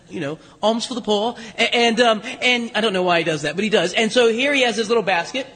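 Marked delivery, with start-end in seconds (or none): 0.6-1.4 lightly voiced English-accented beggar. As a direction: beg with a hint of an English accent. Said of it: "he's speaking in an English accent".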